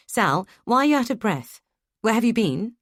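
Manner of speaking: sharp, pressing questions; demanding. Acted. Charlie on the phone demands where Sal has been. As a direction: put the spouse on the spot. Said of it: "I demand".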